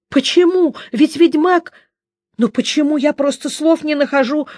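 high, breathless panic; a poet who can't believe the witcher stays; panicked. Acted. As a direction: babble it out in disbelief. Dandelion panicking, pleading.

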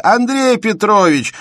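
loud, high, slow exclamation; exclaiming. A narrator's reading. Shubin cutting off Bersenev's lecture with a loud cry. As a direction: cry out his name to stop him. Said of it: "воскликнул вдруг Шубин".

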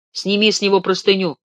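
Sergei raises his voice, near a yell; loud, strained order; ringing almost to a shout. Acted. Sergei to Demin about Ganechka, raising his voice toward a shout. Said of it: "Голос его зазвенел до крика".

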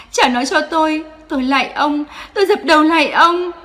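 high, loud tearful begging; a mother on her knees begging the father; desperate pleading. Acted. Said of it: "van xin". (van xin tuyệt vọng, nghẹn ngào)

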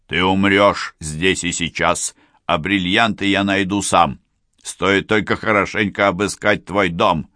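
loud villain threat; angry threat. Acted. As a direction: threaten her, loud and cruel. Killer drowning his victim.

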